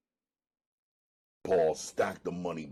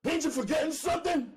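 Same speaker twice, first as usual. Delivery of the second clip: yelled; 3 dB louder, much faster than usual. Acted. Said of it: "I yelled".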